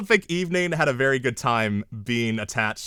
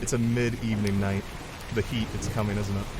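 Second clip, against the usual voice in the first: sultry voice; 3 semitones lower than usual.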